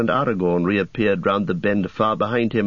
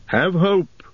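encouraging warrior voice; rally them with hope; Boromir voice; 8 semitones higher than usual. Acted. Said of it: "said Boromir".

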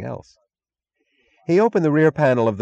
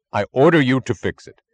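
higher, louder barked command; commanding order; 5 semitones higher, 6 dB louder than usual. Acted. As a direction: order him sharply. Ferris orders the mechanic.

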